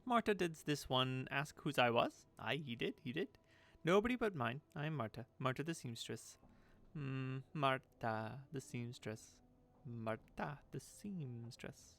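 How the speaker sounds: lilting, swooping batty character voice; odd crone talking to herself; eccentric seamstress, self-important. Acted. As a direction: answer yourself, then draw out your name. Voices Marta introducing herself.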